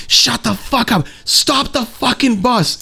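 high, slow, drawn-out mock rant; imitating furious bus lady. Retelling the bus lady yelling at the chaperone, high slow mock voice. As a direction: stretch each word up high like an unhinged stranger.

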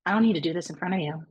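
low, quick, detached retelling; emotionally shut off. Retold or imitated. To boyfriend on FaceTime once past her limit, detached. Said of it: "my emotions just shut off".

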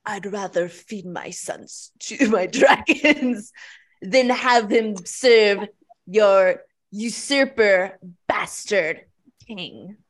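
dramatic movie line. Acted. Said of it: "How do I follow up that performance?".

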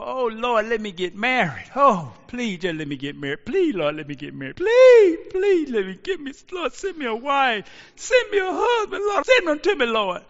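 imitated begging prayer building to a high, loud crying plea; hammed-up single person begging God for a spouse; mock pleading prayer. Preacher mimics singles praying, a mock crying plea. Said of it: "We plead when we're single".

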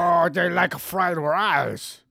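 high, loud, slow mock accent; stereotyped Asian accent, high and slow; bad Asian accent. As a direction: drag it out in a crude cartoon voice. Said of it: "That was a terribly Asian accent".

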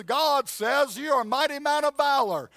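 loud, high proclamation; emphatic preaching. Real, not acted. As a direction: preach it out with full force. Preaching at full force.

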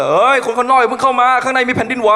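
high, loud yell broken by laughter; laughing mock shout. Friend yelling at the senior knocking outside, laughing mock shout. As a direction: bellow a warning through the door while cracking up. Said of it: "ไอ้ดิวตะโกนเลย".

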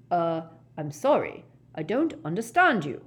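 hesitant, apologetic official; nervous. Acted. Ogden answering a stranger he can't understand, nervously. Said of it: "said Ogden nervously".

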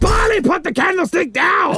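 high-pitched angry shout; exasperated shout. Acted. Master ordering butler to stop polishing, exasperated shout. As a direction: lose patience and yell the order.

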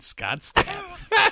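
very high, amazed gasp of a name; starstruck recognition. Retold or imitated. The neighbor seeing his face up close, very high starstruck gasp. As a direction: gasp it like you've spotted a rock star.

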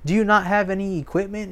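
high, incredulous neighbour asking; a lightly voiced stunned neighbour; shocked neighbour. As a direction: play the baffled visitor gawking at the yard. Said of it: "they go".

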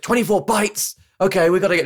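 high, put-on female voice reading bytes; squeaky imitation of a scared typist; mock Nancy. Podcaster mimicking Nancy at the bomb computer, high put-on voice.

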